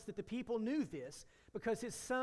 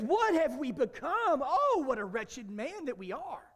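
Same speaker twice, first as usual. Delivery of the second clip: lament; 5 semitones higher, 6 dB louder, slower than usual. Acted. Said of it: "And David says".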